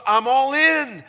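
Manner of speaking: high, loud rallying cry; committed declaration. Acted. Preacher voicing the believer's new resolve, rousing declaration. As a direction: proclaim full commitment, voice lifted and loud. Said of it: "It becomes".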